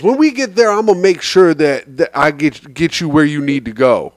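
nice lady driver. Retold or imitated. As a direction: gently imitate a kind driver taking charge. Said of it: "my Uber driver was this nice black lady".

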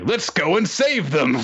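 high, gung-ho mock hero cry; rally the troops, far too cheerfully; chirpy, hammed-up eagerness; upbeat. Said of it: "changing to very upbeat tone".

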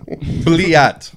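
mock Russian. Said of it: "They always say Bliat".

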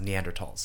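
Neanderthals ending in "talls"; hard-T pronunciation. Shown as a demonstration. Podcaster showing co-host how it's pronounced, hard-T pronunciation. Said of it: "That's how it's pronounced".

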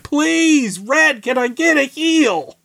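high, pleading voice; lightly hammed-up plea; mock begging. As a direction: beg for a heal. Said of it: "It's like".

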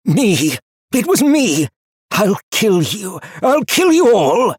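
very high, loud enraged shrieks; shrieking rage. A narrator's reading. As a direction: scream it like a caged animal. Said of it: "He shrieked in rage".

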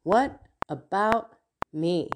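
"What about me?" slowed, weight on "What"; slow emphatic repeat. Retold or imitated. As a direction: let "What about me?" land slowly. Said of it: "God speaking through him".

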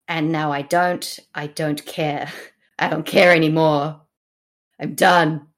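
weary resignation, done caring; tired tragedy. Acted. Henry no longer cares after losing Gloucester, tired. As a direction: play it as tired and fed up. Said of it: "my impression of a tired tragedy".

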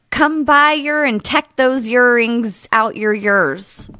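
slow, careful attempt at a Welsh accent. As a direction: sound out each word in a Welsh accent. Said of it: "American girl doing real bad accent".

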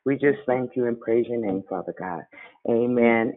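earnest spoken prayer. Acted. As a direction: pray it aloud, steady and sincere. Closing prayer on call.

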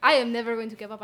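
loud, stubborn declaration; loud defiant. Acted. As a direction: shout it, refusing to back down. In-character argument about bed.

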